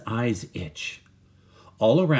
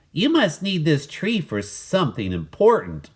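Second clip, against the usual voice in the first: higher, louder call down; 8 semitones higher, 4 dB louder than usual. Acted. Walter calling down to the woodcutters, raised call. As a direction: call down hopefully to the men. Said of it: "Walter called down".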